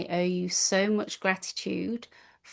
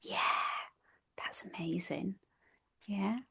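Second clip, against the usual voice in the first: whisper; 11 dB quieter than usual. Real, not acted. Awed aside.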